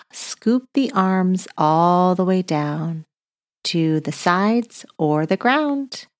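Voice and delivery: slow, calm breathing guide; soothing yoga-teacher cues; guided breathing. Acted. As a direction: lead the children through each breath, slowly. Leads breathing exercise.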